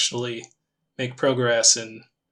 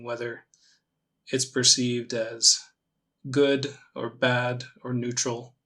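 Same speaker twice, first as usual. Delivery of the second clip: calm meditation guide, long pauses between phrases; measured, gently leading meditation voice; guided meditation; 5 dB quieter than usual. Acted. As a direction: ease them into it with unhurried, spaced-out instructions.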